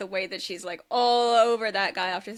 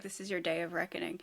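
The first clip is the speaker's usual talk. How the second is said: whisper; 4 semitones lower, 8 dB quieter, faster than usual. Retold or imitated. Menacing line, voiced in whisper.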